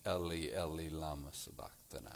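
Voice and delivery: put-on low, hushed cry in a light Jewish accent; Jewish-accented quote. Preacher quotes Matthew's words from the cross, Jewish accent. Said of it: "writes with a Jewish accent".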